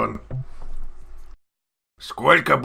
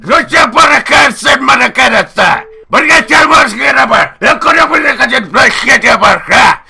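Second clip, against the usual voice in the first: loud gibberish shouting; 10 semitones higher, 8 dB louder than usual. Pretend. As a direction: yell fake words, much higher and louder. Prank caller shouting fake gibberish.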